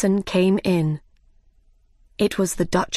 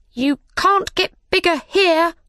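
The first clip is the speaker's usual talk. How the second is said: high mouse voice; 10 semitones higher, 4 dB louder than usual. Acted.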